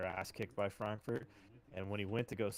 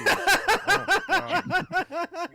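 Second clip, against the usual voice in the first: much higher, loud laughing squeal; laughing hard; 16 dB louder, much slower than usual. Real, not acted. Host cracking up at his friend's story, high loud laugh. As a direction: burst out laughing at the punchline.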